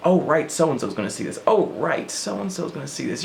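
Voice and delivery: lightly voiced inner censor. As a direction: voice the nervous censor in your head. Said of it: "I'm like".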